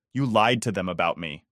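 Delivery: cracking voice, close to tears. Acted. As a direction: let the voice break on it. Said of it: "feeling my voice crack".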